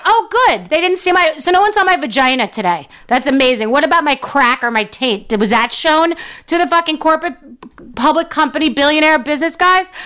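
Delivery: high mock relief turning to outrage; sarcastic relief. Comedian mocks the private parts text in high sarcasm. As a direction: fake cheerful then indignant.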